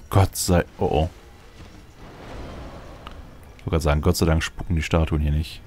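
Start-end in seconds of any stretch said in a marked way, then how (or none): none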